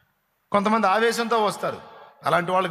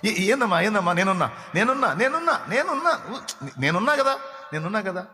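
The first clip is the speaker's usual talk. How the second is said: soothing parent; 3 semitones higher than usual. Retold or imitated. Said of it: "దగ్గర తీసుకొని అన్న మాట".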